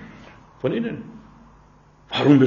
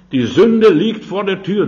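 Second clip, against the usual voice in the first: raised warning; 4 semitones higher, 6 dB louder than usual. Acted. Preacher quoting God's warning.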